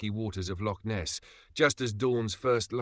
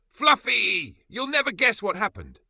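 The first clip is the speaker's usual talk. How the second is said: much higher, louder giddy squeal; giddy tipsy excitement; 13 semitones higher, 8 dB louder than usual. A narrator's reading. Tipsy Emma rushing to tell the cat, giddy and loud. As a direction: burst out with it, giggly and tipsy.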